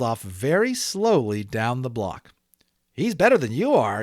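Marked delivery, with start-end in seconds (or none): 2.9-4.0 put-on kid's yell. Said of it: "yelled one of the boys".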